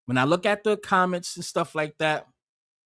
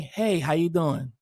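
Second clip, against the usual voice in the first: low, slow, softened hello; mock casual greeting; 6 semitones lower, 4 dB quieter, slower than usual. Pissed-off man answering a scam call, low slow greeting. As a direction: answer low and drawn out, easygoing. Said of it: "And I be like".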